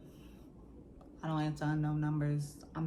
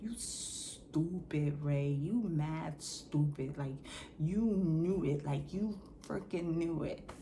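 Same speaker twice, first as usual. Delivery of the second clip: self-scolding. Retold or imitated. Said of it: "all I keep thinking in my mind".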